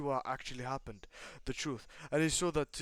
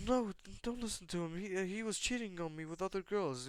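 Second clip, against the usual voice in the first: protesting; 7 semitones higher than usual. Acted. Lilith pleading against ex's claim.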